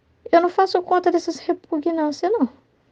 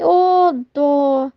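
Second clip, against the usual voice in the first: put-on pitying coo; mock coddling. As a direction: fuss over a child with exaggerated pity. Imitates a parent over-coddling.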